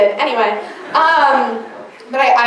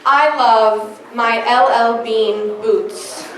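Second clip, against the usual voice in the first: quoting the uncle; 3 semitones lower, much slower than usual. Retold or imitated. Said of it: "So my uncle said".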